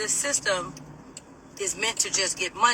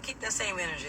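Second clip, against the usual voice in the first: calm retort; 2 semitones lower, 10 dB quieter, faster than usual. Retold or imitated. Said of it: "I was so calm".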